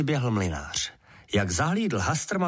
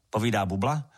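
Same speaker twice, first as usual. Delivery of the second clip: ordinary delivery, nothing marked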